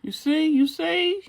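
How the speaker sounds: high, loud, rising excitement; excited. Acted. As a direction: show it off, thrilled. Showing finished brow.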